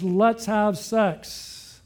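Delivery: drawn out, very slow, a mild seductive coax; slow seductive line. Retold or imitated. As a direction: linger on each word like a temptress, very slowly. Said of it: "She grabs him and says".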